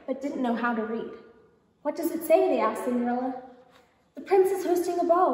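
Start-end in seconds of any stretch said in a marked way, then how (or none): 1.8-2.5 excited. A narrator's reading. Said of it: "were bursting with excitement". 4.1-5.3 higher, louder proclamation; announcing. A narrator's reading. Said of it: "announced Cinderella".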